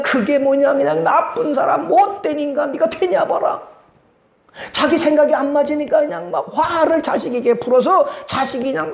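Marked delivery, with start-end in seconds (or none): 0.0-3.6 higher mocking scold; mock parent berating a child who disobeyed, higher. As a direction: belittle the child sharply.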